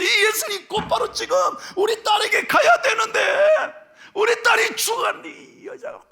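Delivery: high, pleading, strained father; desperate father. Retold or imitated. Pastor voicing Jairus begging Jesus to hurry, high and strained. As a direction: urge Jesus on in a panic. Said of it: "아버지의 입장에서 보면 얼마나 답답해서".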